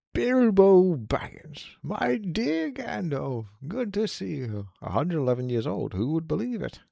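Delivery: high, very slow theatrical greeting; hammed-up old friends reuniting; delighted reunion.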